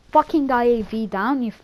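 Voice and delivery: lightly put-on American accent; half-hearted American soldier impression; Frank Woods, rough American attempt. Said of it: "that's American enough".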